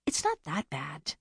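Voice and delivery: mild argument. A narrator's reading. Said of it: "Bea argued".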